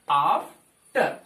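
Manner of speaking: आफ्टर drawn out very slowly with a long aa; slow aa model. Shown as a demonstration. Teacher stretches आफ्टर slowly to show the aa. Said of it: "आ sound आ रहा है".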